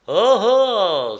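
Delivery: loud, high, delighted "ah ah"; immensely satisfied exclamation. A narrator's reading. Starving man hears there will be fish, hugely satisfied exclamation. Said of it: "S'exclama-t-il avec une immense satisfaction".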